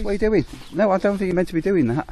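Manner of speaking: mock scolding a horse. Real, not acted.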